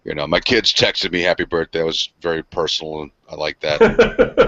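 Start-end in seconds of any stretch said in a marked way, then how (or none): 3.0-4.5 chuckling. Real, not acted. Laughing at kids' impersonal texts.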